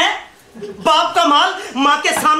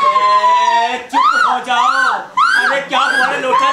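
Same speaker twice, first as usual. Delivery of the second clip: shouting to hush. Acted. Father shouting over the crying.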